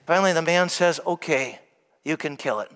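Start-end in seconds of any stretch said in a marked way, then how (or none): 1.1-2.7 reluctant consent. Retold or imitated. Man finally gives in.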